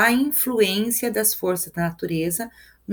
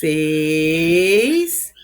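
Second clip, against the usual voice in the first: "seis" held very long, rising and louder; drawn-out counting; 3 semitones lower, 5 dB louder than usual. Shown as a demonstration. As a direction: stretch "seis" out while counting syllables. Contando sílabas, prolonga a palavra. ("seis" bem prolongado na contagem)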